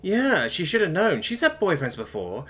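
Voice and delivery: high, whiny tearful rant; blubbering. A narrator's reading. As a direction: pour out the grievance in a weepy high voice. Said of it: "began to blubber anyway".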